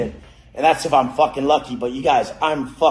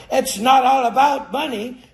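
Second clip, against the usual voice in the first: higher mock voice, sneering; mocking broke people; 9 semitones higher, 4 dB louder than usual. Mocking broke people's excuse in a mock voice. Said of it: "they're not sitting there going".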